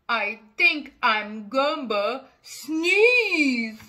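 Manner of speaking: slow, thick pre-sneeze voice; sneezy hog. Acted. The hog warning he is about to sneeze, slow. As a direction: drag it out like a sneeze is coming.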